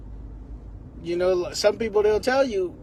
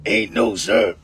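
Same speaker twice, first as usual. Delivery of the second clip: gruff grandma; 3 semitones lower than usual. Retold or imitated. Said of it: "a voice like that".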